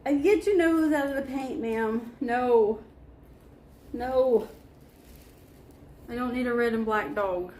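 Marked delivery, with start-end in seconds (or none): 0.1-4.5 high pet-talk scolding. Real, not acted. Scolding dog about the paint.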